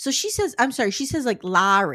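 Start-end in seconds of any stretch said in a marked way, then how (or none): 1.4-2.0 very strong put-on Boston accent, louder. Quoting Angela from the show saying her sister's name: very Boston accent. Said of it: "It's a very Boston accent".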